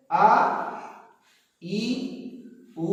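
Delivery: आ, ई, उ each clipped short as one-beat vowels; short vowels said quickly. Shown as a demonstration. Teacher demonstrating short vowels to class, quick and short. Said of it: "इनको हम बहुत जल्दी कह दे रहे हैं".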